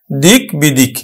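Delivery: দিক বিদিক said as one smooth word pair; pronounced example. Shown as a demonstration. Teacher giving students the spoken form of দিক বিদিক. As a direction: model দিক বিদিক for pupils. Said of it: "আমরা উচ্চারণ করি কিন্তু".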